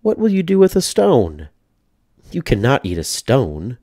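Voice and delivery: put-on high, doubtful little old lady; the old lady scoffing at a stone; high wondering old woman voice. A narrator's reading. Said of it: "said the little old lady".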